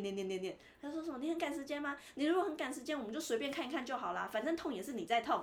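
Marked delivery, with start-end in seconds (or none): 1.2-5.4 模仿牙医带刺的碎念，语气稍高; 轻轻学他刻薄地念人; 碎念说教. Retold or imitated. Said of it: "一连串都是他在念". (模仿牙医对病人碎碎念，带刺的说教)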